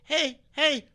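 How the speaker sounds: hammed-up chirpy neighbor husband; mock cheery husband. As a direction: hail Pam across the lawn with fake cheer. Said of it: "her husband rolls up and he's like".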